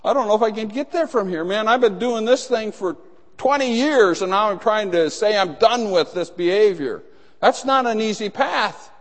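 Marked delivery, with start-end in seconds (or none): 0.0-7.0 higher, fast, discouraged voice; a worn-out believer voicing doubt; high, hurried grumble of doubt; weary doubter. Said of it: "you sit there and say".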